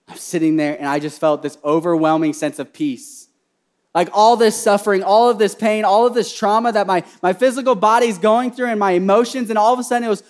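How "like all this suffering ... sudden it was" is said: impassioned preaching. Real, not acted. Preaches at full force.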